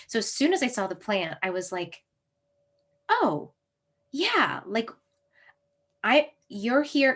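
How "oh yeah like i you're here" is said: high, thrilled gasp of recognition; overjoyed discovery. Retold or imitated. Speaker finding blue vervain in a parking lot, high and thrilled. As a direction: greet the plant like a long-lost friend. Spotting the wild plant, overjoyed.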